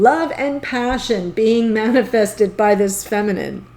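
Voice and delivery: ordinary delivery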